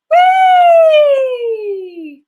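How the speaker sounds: very high, loud sustained "Wee!". Shown as a demonstration. Coach showing students a high "Wee!" warm-up. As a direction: soar up on a long bright "Wee!". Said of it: "Try that".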